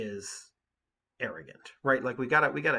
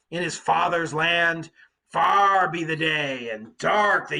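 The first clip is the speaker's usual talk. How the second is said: Cyclops praying; 3 semitones higher, 6 dB louder than usual. Acted. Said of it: "and prayed to Poseidon".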